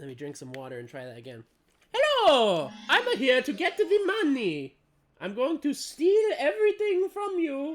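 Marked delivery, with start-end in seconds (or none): 1.9-7.8 cartoonish Italian accent, much higher, louder, slower. Speaker retries doing a Mario voice after drinking some water: awful Mario impression. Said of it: "it's an awful impression".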